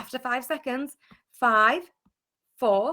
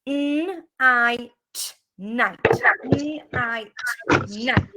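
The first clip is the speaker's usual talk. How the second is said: N I T spelt slowly, letter by letter; slow sounding out; slower than usual. Shown as a demonstration. Teacher to class at whiteboards, slow spelling. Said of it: "use the I sound".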